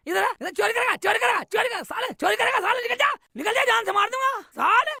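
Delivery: angry scolding. Acted. Vendor scolds a child for stealing.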